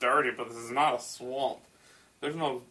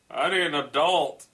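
louder, hammed-up plea for help; mock alarm; 3 semitones higher, 5 dB louder than usual. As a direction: call out in pretend distress.

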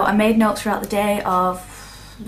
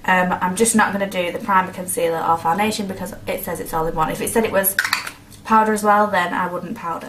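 talking while chewing gum; words round a piece of gum. Real, not acted. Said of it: "Sorry, I've got chewing gum in".

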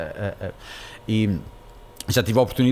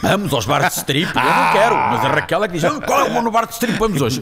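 mock eagerness; 6 semitones higher, 5 dB louder than usual. Comic reversal, Raquel begs for strip bars.

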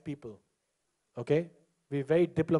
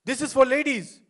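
mock angry lady; 7 semitones higher than usual. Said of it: "she's so angry with this guy".

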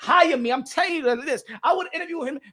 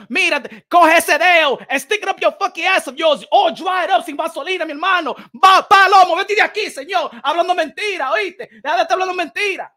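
loud, insulting tirade; angry rant; 3 semitones higher, 5 dB louder than usual. Real, not acted. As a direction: rant loudly at a liar. Ranting at a liar.

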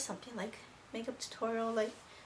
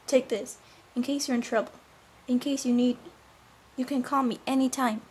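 loud, projected dramatic scene reading; acted confrontation; 9 dB louder than usual. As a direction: act out a heated plea, voice raised. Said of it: "I'll show you how it went".

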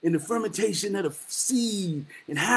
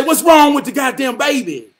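exasperated question; 5 semitones higher, 8 dB louder than usual. Retold or imitated. Voicing people asking.

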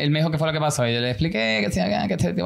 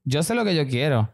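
slow, deliberate, settling lower; firm declaration; 5 semitones lower, slower than usual. Retold or imitated. Client telling psychologist he is sure, slow and firm. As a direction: spell out your certainty, unhurried.

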